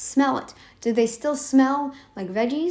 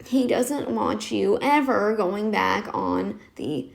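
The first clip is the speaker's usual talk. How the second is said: slow, lightly shaky imitation of the doctor; croaky doctor imitation; 2 semitones lower, slower than usual. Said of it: "shaky, croaky voice".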